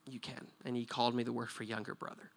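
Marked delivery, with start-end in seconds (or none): 0.1-0.5 teary yes. Retold or imitated. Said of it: "he teared up and he said".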